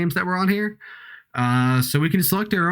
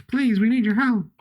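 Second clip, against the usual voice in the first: pleading; 8 semitones higher than usual. Acted. Game character begs for help.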